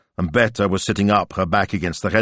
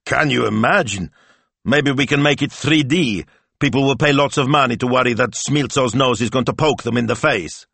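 higher-pitched incredulous mockery; snorting scorn; 6 semitones higher, 4 dB louder than usual. A narrator's reading. Husband mocks casting Smilzo to his wife, scornful. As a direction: scoff at the very idea, pitched up. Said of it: "Signor Speranza snorted".

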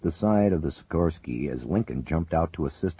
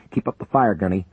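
loud, higher order; calling out orders; 4 semitones higher, 6 dB louder than usual. Acted. Major ordering the gunner to keep firing, loud. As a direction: urge him to keep shooting.

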